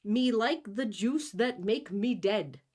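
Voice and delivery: slow, broken caveman speech; a light mock caveman voice; caveman talk. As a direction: dumb it all the way down. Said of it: "Why are you talking to me like that?".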